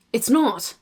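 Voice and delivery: short reply in RP English; RP accent. Shown as a demonstration. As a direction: answer in an RP British accent. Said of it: "She does the R P accent".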